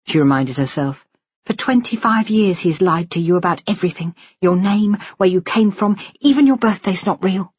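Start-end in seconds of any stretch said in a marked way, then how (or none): 1.4-7.5 higher-pitched, mildly bitter inner voice; understated daughter's resentment; resentful daughter. Acted. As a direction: list the grievances to yourself, pitched up.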